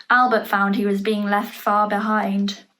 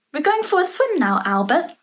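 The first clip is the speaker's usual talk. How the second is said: put-on excited cloud children; 6 semitones higher than usual. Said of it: "said the cloud children".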